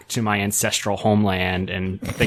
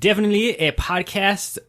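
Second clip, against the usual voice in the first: put-on higher, lilting Cajun accent; 7 semitones higher than usual. Louisiana host starts reading a listener review, Cajun accent. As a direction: lean into a sing-song Cajun accent. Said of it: "get into the accent".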